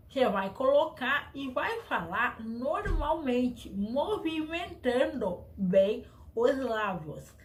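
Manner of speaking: speaking slowly around a cork held in the teeth. Shown as a demonstration. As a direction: talk slowly with a cork between your teeth, lips moving a lot. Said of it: "assim, ó".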